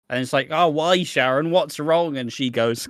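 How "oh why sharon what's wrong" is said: high, loud, hammed-up pleading; mock dismay. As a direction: plead like a soap lover. Acts Phil's distressed questioning.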